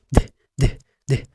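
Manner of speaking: "د" said as a bare d with a sukun, no vowel after it; short d sound. Shown as a demonstration. Teacher models the letter D for the learner. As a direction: stop "د" dead with no vowel. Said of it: "دال وعليها سكون".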